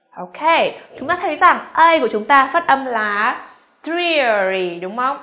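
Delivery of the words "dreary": "dreary" with a clear ear glide; EAR vowel. Shown as a demonstration. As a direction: model "dreary" carefully with the ear diphthong.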